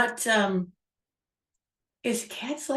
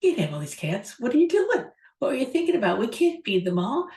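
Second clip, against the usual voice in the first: shocked wife; 3 semitones higher than usual. Retold or imitated. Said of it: "was just shocked".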